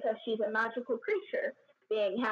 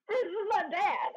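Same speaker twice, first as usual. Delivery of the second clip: embarrassed son; 8 semitones higher than usual. Retold or imitated. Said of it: "Dante's all like".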